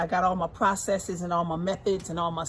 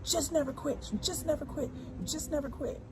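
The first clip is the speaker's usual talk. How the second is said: imitating son; 8 semitones higher, 6 dB quieter than usual. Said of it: "Santana's like".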